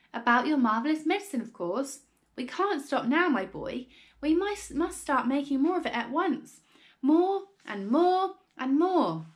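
gush, then stretch out each demand; excited father getting carried away; great excitement. A narrator's reading. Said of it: "in a state of greater excitement than ever".

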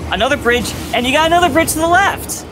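exasperated. Real, not acted. Child explaining the bridges to dad, exasperated. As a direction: spell it out in exasperation, pitch climbing. Quarrel over bridge directions.

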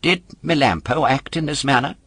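a hint of an indignant wooden boy; puppet voice. A narrator's reading. Puppet corrects the polecat, a touch indignant.

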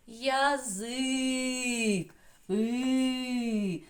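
ЯЗИК leaning on a long ЗИК, then И held; stress on second syllable. Shown as a demonstration. Teacher tests where stress falls, И drawn out long. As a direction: stretch the И of ЯЗИК. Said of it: "На перший звук А чи на И?".

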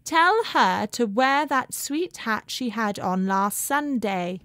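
soft, slow, far off upstairs; distant voice. Acted. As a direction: float it down from far away. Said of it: "Missus Sheridan's voice floated down the stairs".

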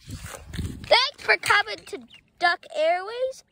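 slow, drawn-out captain sign-off; playful pilot thanking passengers; airline pilot. Pretend.

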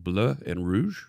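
put-on French accent on the team colours, slowly; attempted French accent. Streamer naming French team's colours to viewers, attempted French accent. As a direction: have a careful go at a French accent. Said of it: "in my best French accent".

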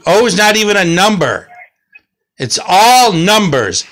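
exasperated. Shown as a demonstration. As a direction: fling out "O" in frustration. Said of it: "O's, I told you".

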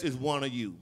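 low, soft, grave line; hushed, grave Jesus voice; quiet solemn Jesus. Acted.

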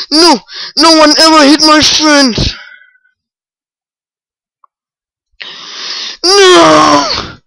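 loud pleading yell; loud crying shout; desperate shout. Real, not acted. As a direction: shout to stop the attack. Losing the fight.

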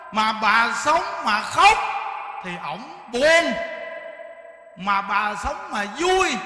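slow, loud and forceful; speaking strongly. Shown as a demonstration. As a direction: hammer each phrase home. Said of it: "Nãy là mình phải nói mạnh". (nói chậm, mạnh, dằn từng câu)

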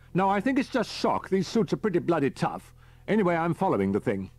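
brisk countdown orders; captain Peters. A narrator's reading. Peters on the radio.

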